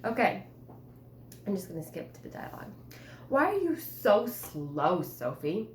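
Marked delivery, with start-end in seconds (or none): 3.3-5.7 snapping. Acted. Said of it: "snapped my brothers".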